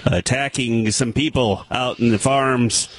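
measured local TV news delivery; improvised news-report voice; mock newscaster. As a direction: read it like a field reporter handing off to a witness. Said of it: "like a newscaster and say".

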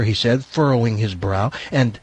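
even, run-on story reading; parody novel narration. Pretend. Host parodying how she would write, measured narration. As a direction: read the overwrought prose with a straight delivery.

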